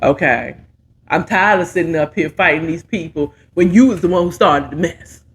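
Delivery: lightly voiced friend scolding Carl; low scolding friend. Friend scolds Carl about starting the mess, low and stern. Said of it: "I want my friends to be like".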